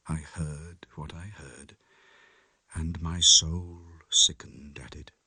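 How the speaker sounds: soft, low and shaken confession; hushed, haunted narration. A narrator's reading. Lanyon writing his last letter to Utterson, hushed. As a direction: read it like a dying man's last words.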